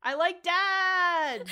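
slow, drawn-out happy protest; I like dads. Real, not acted. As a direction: stretch it out, gleeful. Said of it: "Star likes the dads".

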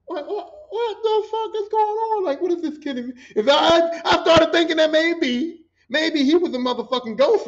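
high, loud, stammering disbelief; bewildered outburst. Retold or imitated. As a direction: lose it over a baffling mystery. Bewildered, doubting own sanity.

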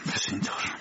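low, whispered grumble; whispered grouchy aside; grumbling. A narrator's reading. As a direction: grumble it half under the breath. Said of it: "پزشک با لحن قرقر گفت".

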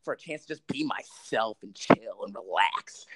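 lightly voiced stoner, slowing down; mock a laid-back weed smoker, stretching the words. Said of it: "when people just go, like".

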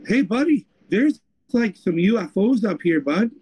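put-on playful Canadian accent, buddy-style. Voicing the 911 caller in a Canadian accent. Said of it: "sorry, that's a Canadian accent".

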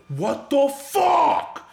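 high, loud, long-drawn mock outburst; pissed-off yell. Friend yelling from the next booth, pissed off. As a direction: stretch it into an outraged cry. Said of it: "And he's, like, pissed".

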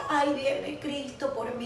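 slow, drawn-out dramatic wail with laughter in it; hammed-up deathbed moan; mock dying lament. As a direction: play at dying, stretching each word. Acting her own near-death moment.

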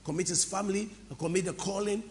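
low, measured prayer for others to repeat. Shown as a demonstration. Leading the congregation in prayer for their pastor, prayerful.

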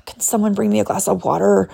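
whispered, sheepish request; timid whisper. Retold or imitated. Asking husband timidly for water, whispered.

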